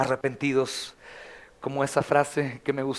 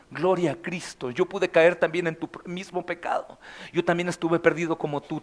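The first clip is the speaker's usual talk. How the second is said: tender welcome. Acted. Welcoming repentant brother tenderly.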